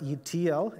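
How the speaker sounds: "E T L" with the emphasis on the T; stress on T. Real, not acted. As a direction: lean on the middle letter T in "E T L". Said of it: "emphasis on the T".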